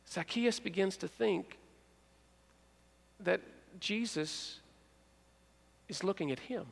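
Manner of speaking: quiet and slow, drawing listeners in; soft storyteller hush; hushed suspense. Acted.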